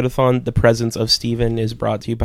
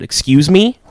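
pissed off; 4 semitones higher, 5 dB louder than usual. Retold or imitated. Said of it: "Like, pissed off".

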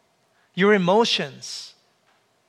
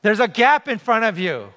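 lightly voiced teacher, raised pitch; calling teacher; 3 semitones higher than usual. Teacher telling a pupil about the gap, calling out. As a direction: call it down the line to a pupil. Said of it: "My teacher said to me".

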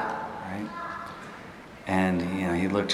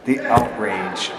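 slow, laughing mock indignation; drawn out through a laugh, poking fun at himself; amused, hammed-up outrage; 2 semitones higher, much slower than usual. Real, not acted. Laughing at own childhood indignation.

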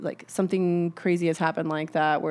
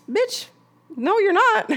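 much higher, louder, mock-outraged snap; sassy refusal; 6 dB louder, slower than usual. Woman rejecting her cheating man's dinner offer, high sassy outrage. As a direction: shoot him down with exaggerated sass.

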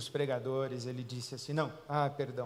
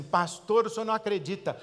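excited churchgoer; 5 semitones higher, 8 dB louder than usual. Retold or imitated. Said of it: "as pessoas vêm assim".

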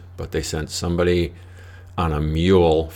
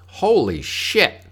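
shocked; 11 semitones higher, 7 dB louder, much slower than usual. Retold or imitated. Doctor shocked at wound.

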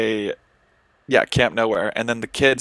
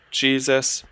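exasperated; 3 semitones higher, much slower than usual. Real, not acted. Exasperated by insurance website.

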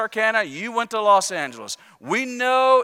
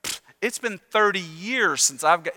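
arrogant. Retold or imitated. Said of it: "with arrogance".

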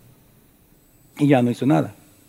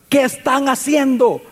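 a mild raised call across the distance, slow; calling from afar; 6 semitones higher, slower than usual. Acted. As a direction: call to them from far off. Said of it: "desde lejos les comienza a gritar".

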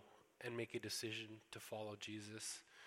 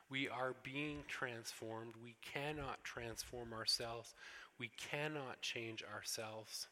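slow emphatic preaching; slower than usual. Real, not acted. Preacher stresses key truth.

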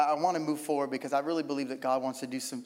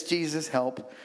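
simple prayer; 2 semitones lower than usual. Retold or imitated. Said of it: "it's like this".

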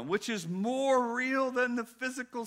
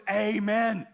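mock church crowd. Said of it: "everyone who's looking through this lens goes".

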